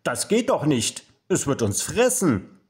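high, loud, shocked protest; startled storybook mother; alarmed. A narrator's reading. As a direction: exclaim in alarm, stumbling over the words. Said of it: "Mama schüttelt erschrocken den Kopf".

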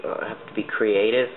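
practised, put-on British accent; Canadian trying on British English. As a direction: speak in an amateur British accent. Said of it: "I just like to speak like this".

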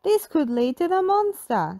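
spooked guess; Shaggy voice. A narrator's reading. Shaggy eyeing the crumb trail, high and nervous. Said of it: "said Shaggy".

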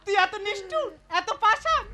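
softened, sobbing accusation; tearful reproach. Acted. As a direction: reproach through tears. Grieving sister reproaches brother. (কাঁদতে কাঁদতে অনুযোগ)

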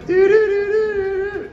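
high, loud flickering doo noises; a house buzzing in a storm; talking house. Pretend. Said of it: "see my impression of a, a, a house in a storm that's having electrical problems".

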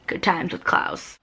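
slow, unvoiced deadpan aside; sarcastic aside. Real, not acted. To viewers about Klaus's killing spree, slow dry sarcasm. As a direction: mutter it dryly, slowly, like a private joke.

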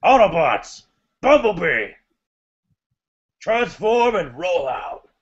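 lightly voiced slow heroic command; a hint of a robot commander rallying troops; Optimus Prime impression. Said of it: "who does a better Optimus Prime impression".

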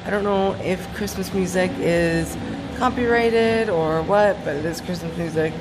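echoey pool acoustics; talking in a reverberant pool hall; at an indoor pool. Real, not acted. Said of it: "I'm in the pool right now".

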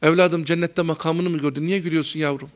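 tutting softly then a lightly voiced reproach; disapproving teacher. Old teacher scolding a laughing student, a hint of tutting reproach. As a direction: click the tongue in dismay, then chide gently. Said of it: "birisi gülerdi falan".

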